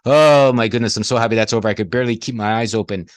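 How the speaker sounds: loud exhausted groan of relief at week's end; worn-out relief. Retold or imitated. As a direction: burst out with relief that the week is over.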